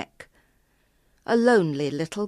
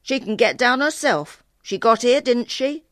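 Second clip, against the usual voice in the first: loud, higher-pitched petulant retort; sulky boy; 6 semitones higher, 6 dB louder than usual. A narrator's reading. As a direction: refuse to help, in a louder sulk. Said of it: "he went off in a sulk".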